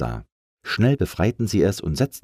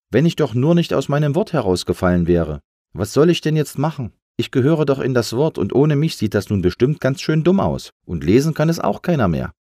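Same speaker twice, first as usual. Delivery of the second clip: high-pitched plaintive lament; sad, helpless; 7 semitones higher, 4 dB louder than usual. A narrator's reading. Lost letter bewails its missing word, helpless lament. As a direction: bemoan your lot, helplessly. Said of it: "Traurigkeit und Hilflosigkeit".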